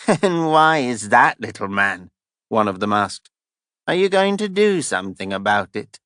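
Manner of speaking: mocking. Thief mocking Stefan.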